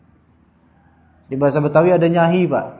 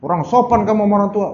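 mock scolding; 4 semitones higher, faster than usual. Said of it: "orang tua zaman dulu digituin".

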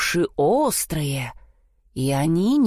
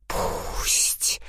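squeaking bat; 5 dB quieter than usual. A narrator's reading. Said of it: "запищали летучие мыши".

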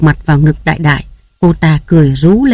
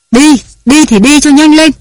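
much higher, louder shouted order; loud yell; 9 semitones higher, 4 dB louder than usual. Acted. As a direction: yell her out the door. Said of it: "Tiếng bà Nam hét to". (hét to đuổi bà Ngô đi, giọng the thé)

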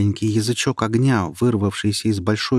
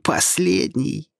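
snide. Acted. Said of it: "ехидно ответил голос".

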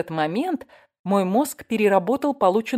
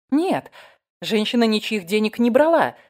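high, raised-voice insistence; loud, earnest contradiction; emphatic denial; 5 semitones higher, 5 dB louder than usual. Acted. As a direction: firmly clear the woman's name. Narrator clears the accused woman.

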